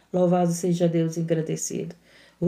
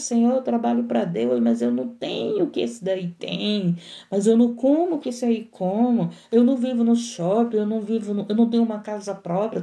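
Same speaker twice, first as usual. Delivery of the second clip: complaining worker. Retold or imitated. Preacher mimics a believer complaining to God, mock whine. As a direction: whine about having less. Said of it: "quantas pessoas dizem que trabalham".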